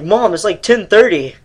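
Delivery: put-on whiny kid protest. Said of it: "I was like".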